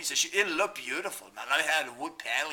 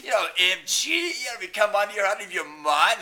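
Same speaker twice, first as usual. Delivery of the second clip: ordinary talk, nothing marked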